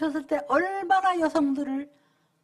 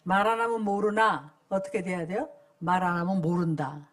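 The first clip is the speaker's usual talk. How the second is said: call and response; 6 semitones lower than usual. Shown as a demonstration. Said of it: "한번 저를 따라 해볼까요?".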